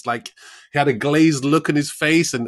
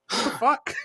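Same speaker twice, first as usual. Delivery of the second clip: laughing disbelief; 11 semitones higher than usual. Retold or imitated.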